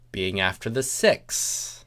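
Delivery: plain reading voice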